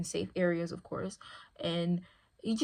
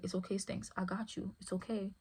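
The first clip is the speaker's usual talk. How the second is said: soothing dog; 6 dB quieter than usual. Retold or imitated. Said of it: "I'm like".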